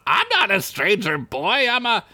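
high slow oily stranger voice; sly sewer creature. Acted. Sewer stranger lures Derek, slow and sly. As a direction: purr it out slyly. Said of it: "Yeah, that's it".

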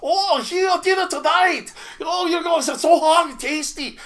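high, loud mock Asian accent; exaggerated Asian accent, shrill and in diners' faces; fake Asian accent. Chef serving food right in diners' faces, fake Asian accent. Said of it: "I put on my fake Asian accent".

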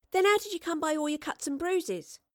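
put-on high, eager girl's voice; curious young girl. A narrator's reading. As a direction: pester him with questions. Astrid questioning.

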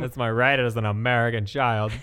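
lightly voiced American kid, pitched a little low; a hint of a bratty American child. Mimicking how American children sound, lightly voiced American child. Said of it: "That's what American children sound like".

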